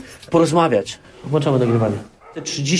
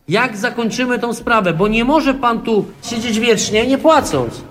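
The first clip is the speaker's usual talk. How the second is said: higher, raised voice calling to someone inside; calling through a door; 5 semitones higher than usual. Real, not acted. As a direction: call out firmly through a closed door. Calling to tenant behind door.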